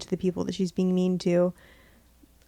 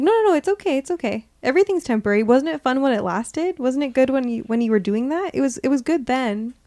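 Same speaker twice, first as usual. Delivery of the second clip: a hammed-up soothing no, no, no that opens higher and louder, then settles; mock reassuring; 4 semitones higher, 4 dB louder than usual. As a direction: brush off the loss like a breezy shopkeeper. Game cheerily waving away your loss.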